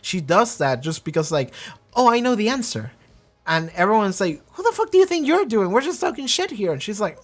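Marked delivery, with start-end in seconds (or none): 1.9-2.9 higher, chirpy, pleased with herself; eager to show she knows, voiced higher; proud know-it-all. Caitlyn proudly offering the answer, higher voice. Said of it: "proud as she says it". 4.5-6.7 much higher, scornful mock voice; mocking peers. Enforcers jeering at know-it-all Caitlyn, high scornful mock.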